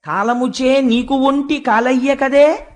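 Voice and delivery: slow, measured chanting of Telugu verse; verse recitation. Acted. Preacher recites the earth's verse to listeners, slow recitation. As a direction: recite it line by line, drawn out.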